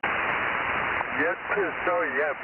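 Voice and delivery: talking through a mouthful of food; words around a bite, chewing; mouth full. Real, not acted. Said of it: "With my mouth full".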